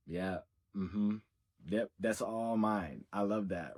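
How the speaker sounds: adoring murmur. Acted. Staring at her twin flame, adoring murmur. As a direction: say it quietly to yourself, admiring. Imitates herself gazing adoringly.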